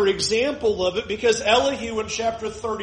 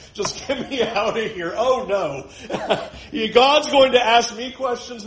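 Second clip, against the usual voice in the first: laughing mock panic. Real, not acted. Jokes about fleeing God's questions.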